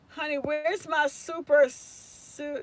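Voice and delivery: a hint of a slow movie-line quote. Teacher quoting a movie line to herself, lightly voiced and slow.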